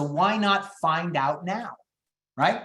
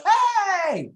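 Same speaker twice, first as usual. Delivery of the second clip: big high, loud, drawn-out call; high-energy greeting; 5 dB louder than usual. Shown as a demonstration. Agent wrongly greeting grieving seller, over-the-top high energy. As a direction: burst in with an exaggerated bright upswing. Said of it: "Then my initial approach".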